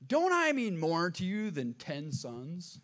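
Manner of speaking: slow, self-important husband; lightly voiced clueless husband, drawn out; dumb husband. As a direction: ask it slowly, as if it were obvious. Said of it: "he says something really dumb".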